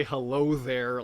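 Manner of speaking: slowed greeting in a lightly accented impression; a hint of a film Jedi's accent, drawn out; slow, lightly put-on accented catchphrase; Obi-Wan. Shown as a demonstration. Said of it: "like Obi-Wan does in Star Wars".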